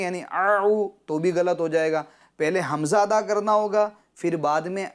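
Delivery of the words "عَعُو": آؤ with both sounds squeezed in the throat as ayn; wrong double ayn. Shown as a demonstration. Teacher warning pupils of error, double ayn in آؤ. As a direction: show the mistake: throaty ayn twice in آؤ. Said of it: "دونوں میں عین پڑھیں گے".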